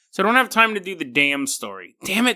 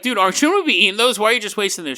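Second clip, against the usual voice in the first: quick, higher, mildly incredulous; puzzled husband; 5 semitones higher, much faster than usual. Retold or imitated. Husband questions his wife breaking all the eggs, fast and puzzled. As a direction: rattle it off like a baffled husband. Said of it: "The husband's like".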